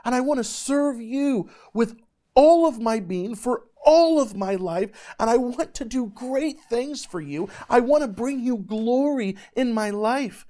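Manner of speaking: high, loud, fervent preaching; preaching at full force. Acted. Preacher telling youth about his calling, preaching fervently. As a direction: preach it out to the crowd with full passion.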